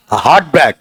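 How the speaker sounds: हार्ट ब्रेक with both words hit hard; weight on हार्ट and on ब्रेक; equal stress on both words. Shown as a demonstration. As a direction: spondee with two strong beats. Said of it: "दिल पर भी जोर और तोड़ने पर भी जोर".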